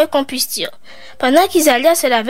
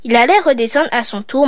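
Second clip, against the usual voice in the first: plain reading voice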